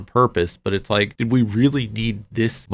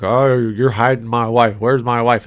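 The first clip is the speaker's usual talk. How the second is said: louder, lightly acted confrontation; imitated angry husband; mock angry accusation; 6 dB louder than usual. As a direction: accuse him like a hothead, half in jest. Acted confrontation, gun pulled on McGee.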